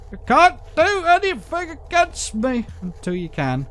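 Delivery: high, slow menacing taunt; monster voice. Acted. Voicing the monster.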